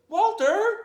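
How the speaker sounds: loud high call of the name; blaming shout. Acted. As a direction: yell the name to pin the blame. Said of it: "all he had to say was".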